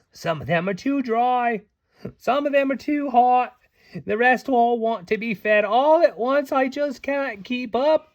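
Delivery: high and loud, flustered and overwhelmed; a high, anxious fairy at her wits' end; Beck, high fretful voice. Acted. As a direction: pour out the frog troubles in a high, harried voice. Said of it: "Beck cried".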